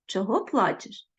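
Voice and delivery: kind demo. Shown as a demonstration. Teacher demonstrating the kind boy's gentle question. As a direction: ask «Чого плачеш?» with sympathy. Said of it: "такий би хлопчик мав сказати".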